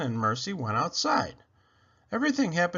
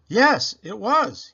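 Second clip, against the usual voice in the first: mock-officer voice; 9 semitones higher, 8 dB louder, slower than usual. A narrator's reading. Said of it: "he answered himself".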